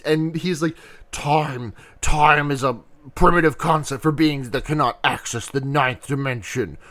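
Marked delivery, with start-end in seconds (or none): 1.1-6.8 a hint of a pompous alien overlord; lofty alien being. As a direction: pronounce it like a lofty cosmic being.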